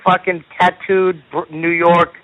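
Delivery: worked up, pitch riding high; hot and bothered. Real, not acted. Comic describing his challenger to his co-host, hot and bothered. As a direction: rant with real, high-pitched exasperation. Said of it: "you get all hot and bothered".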